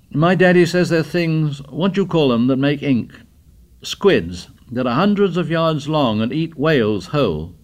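a hint of an excited schoolboy; eager boy. Morris's voice continues.

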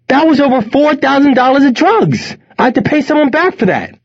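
very high, frantic furious yell; senseless with anger. A narrator's reading. Son owing money to his connects, senseless with anger. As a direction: rage at the loss. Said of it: "Wes was senseless with anger".

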